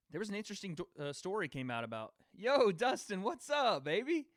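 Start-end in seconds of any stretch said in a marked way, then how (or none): 2.4-4.3 loud, high, hyped-up shout-out; excited greeting. Real, not acted. Streamer hypes up his gym coach friend, loud and excited. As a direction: greet your buddy like he just walked in.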